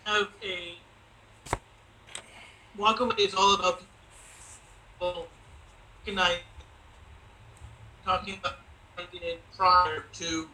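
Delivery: choppy, warbling bad connection; glitchy call audio. Real, not acted. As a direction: voice breaking up over a laggy line. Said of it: "You're glitching out real, real heavy".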